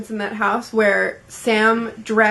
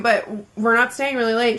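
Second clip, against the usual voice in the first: grudging, in the usual register; reluctant condition. Retold or imitated. Giving in to a friend about a party, reluctant condition. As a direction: lay down a condition while giving in.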